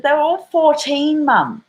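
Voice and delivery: high, incredulous daughter; mock stunned teen; imitating daughter. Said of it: "she said".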